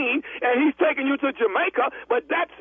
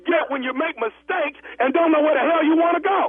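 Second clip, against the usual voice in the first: shouting. Acted. Agent yelling back.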